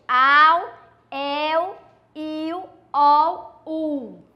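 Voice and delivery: AU, EL, IU, OL, U, each drawn out alone with final L as a w glide; vowel-plus-L syllable drill. Shown as a demonstration. Teacher showing pupils how L after a vowel reads, syllable drill. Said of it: "a gente lê diferente".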